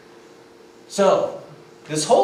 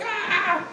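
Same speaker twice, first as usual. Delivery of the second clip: high, softer mock scream; mock falling scream; 5 dB quieter than usual. Rider falling off the cliff, high mock scream. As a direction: cry out high, holding back the volume. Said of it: "I'm like".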